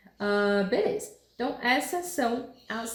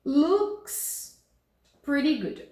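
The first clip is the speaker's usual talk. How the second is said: higher Snoopy-like read; character voice read; 5 semitones higher, much slower than usual. Shown as a demonstration. Teacher reads Snoopy's line in a raised voice. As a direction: voice the comic line up high. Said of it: "Vamos reparar nela aqui".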